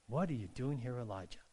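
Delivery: soft, low echo of the question; gentle divine question. Acted. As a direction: let the voice sink and fade on the name. God's question repeated as still voice.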